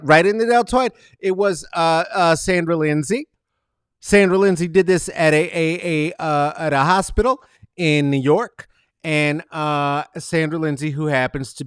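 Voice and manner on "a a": normal talking voice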